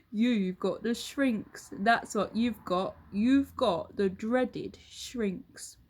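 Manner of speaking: slow, drawn-out taunt; Mr Twit gloating slowly. Acted. Husband spells out the dreaded disease, slow and gloating. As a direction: savour every word.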